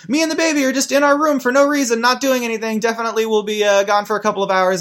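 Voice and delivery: put-on high, singsong innocent-act kid voice; hammed-up high child voice; Timmy. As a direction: pitch it way up, overexplaining a cover story. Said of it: "Timmy is constantly being like".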